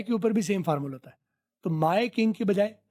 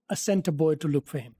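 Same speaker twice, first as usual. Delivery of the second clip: slow teaching read; much slower than usual. Shown as a demonstration. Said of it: "repeats line slowly".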